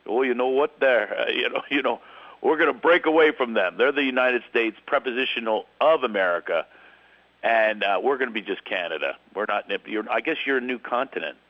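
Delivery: a hint of a Canadian accent that fades out. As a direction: start in a Canadian accent and then drop it. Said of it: "started to do the Canadian accent and then you dropped it".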